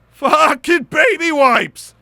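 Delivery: high, slow exclamation; excited yell about a cleaning trick; excited shout. Real, not acted. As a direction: cheer it like a great find. Excited product discovery.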